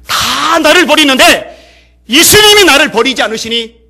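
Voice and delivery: loud, high, slow joyful declaration; bright answer. Retold or imitated. Leper answering the professor about God's grace, loud and joyful. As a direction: proclaim it with shining joy. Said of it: "밝은 소리로 이렇게 대답합니다".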